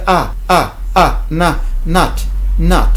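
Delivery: not with an open back ah, "naht"; American ah sound. Shown as a demonstration. Teacher correcting French learners' sharp a, open American ah. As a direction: stretch the ah, then build up to "not". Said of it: "c'est pas un A aigu".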